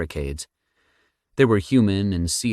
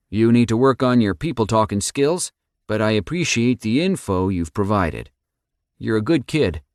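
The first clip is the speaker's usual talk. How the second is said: Rick voice; 5 semitones higher, 4 dB louder than usual. A narrator's reading.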